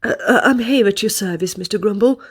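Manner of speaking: fast, fawning politeness; a hint of an obsequious manager; impeccably polite. Manager politely greets Mister Grumble. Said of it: "said the manager impeccably politely".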